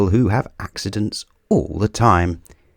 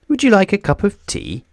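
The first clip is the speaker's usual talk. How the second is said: much higher and fast, a cheerful offer; Mister Bump offering; 12 semitones higher, faster than usual. A narrator's reading. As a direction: brightly offer the tea, quick and high. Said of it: "offered Mister Bump".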